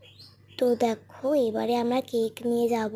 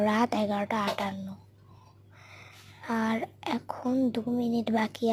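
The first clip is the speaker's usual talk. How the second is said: soft unvoiced whisper, "রাত" leaned on; 4 dB quieter than usual. Real, not acted. Counting down to mother's birthday near her bed, whispering. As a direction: whisper "রাত এগারোটা আটান্ন" under your breath. Sneaking while mother sleeps.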